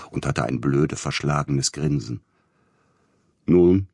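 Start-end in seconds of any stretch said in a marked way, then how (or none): 3.4-3.9 loud, sharp officer's call. A narrator's reading. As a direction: call it out with authority. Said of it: "rief einer der Polizeibeamten".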